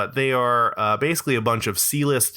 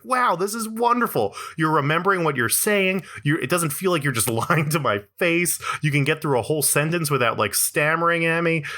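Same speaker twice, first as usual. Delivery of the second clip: higher, gushing mock relief; mock delighted listener; 5 semitones higher than usual. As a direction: act amazed and grateful. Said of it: "and it's like".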